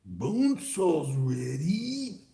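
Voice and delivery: slow whispered repeat; whispered Bone Saw. Retold or imitated. Streamer repeating the Bone Saw line in a whisper. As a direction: breathe it out slowly. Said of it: "Remember that nonsense?".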